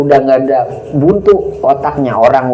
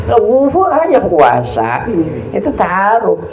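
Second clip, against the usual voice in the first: slow, raised voice declaring his power; voice of God; 6 semitones higher, slower than usual. Retold or imitated. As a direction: speak as God, slowly, with authority. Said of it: "Kata Allah apa?". (suara Tuhan, pelan dan berwibawa)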